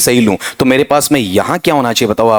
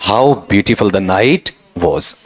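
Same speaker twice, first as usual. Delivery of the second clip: slow exclamation; 3 semitones lower, much slower than usual. Shown as a demonstration. Teacher reads the correct answer aloud to students, very slow and deliberate. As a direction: read it out very slowly and carefully, word by word. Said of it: "बोल के बताना".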